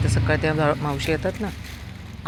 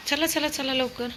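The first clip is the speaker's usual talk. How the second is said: high coaxing; 10 semitones higher than usual. Real, not acted. Coaxing dog home.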